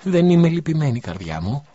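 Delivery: a mother wiping tears; tearful mother. A narrator's reading. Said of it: "σφουγγίζοντας τα δάκρυά της". (μητέρα με δάκρυα στη φωνή)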